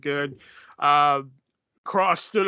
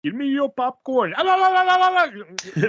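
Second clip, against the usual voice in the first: loud, high, rising babbled yell; hammed-up yell over stolen popcorn; mock war cry; 5 semitones higher, 4 dB louder than usual. Acts out popcorn fight, joke shout.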